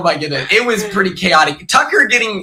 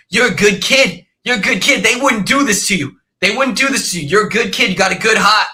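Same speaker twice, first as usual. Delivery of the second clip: higher-pitched imitation of a reassuring housemate; retold pep talk; 3 semitones higher, faster than usual. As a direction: act out a buddy's earnest pep talk. Kenny reassuring the speaker, retold.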